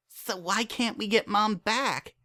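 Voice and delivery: a daughter talking her father round; young filly Dinky. A narrator's reading. Dinky pleads for mom.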